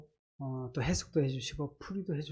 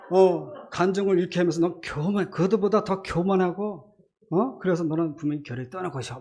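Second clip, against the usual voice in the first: mocking inner voice; 2 semitones higher, 5 dB louder than usual. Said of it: "막 조소를 하게 되는 거예요".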